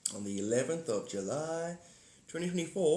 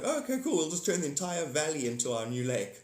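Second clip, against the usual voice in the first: fish voice; 2 semitones higher than usual. Retold or imitated. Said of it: "The fish are like".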